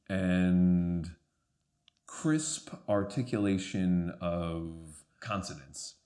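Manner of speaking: crisp-consonant British Received Pronunciation; slow, carefully articulated posh British; posh British accent. Shown as a demonstration. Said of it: "so posh, you really want to".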